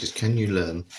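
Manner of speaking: talking through a mouthful of peanut butter; words sticky with peanut butter in the mouth; mouth full of peanut butter. Real, not acted. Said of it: "I've got peanut butter all over my mouth".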